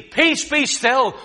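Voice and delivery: high, loud, slow command; commanding shout. Acted. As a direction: order the storm to stop. Jesus commanding the stormy sea.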